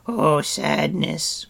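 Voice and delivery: high, loud, long-drawn moan; theatrical creature lament; Gurki, moaning. A narrator's reading. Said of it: "Gurki moaned".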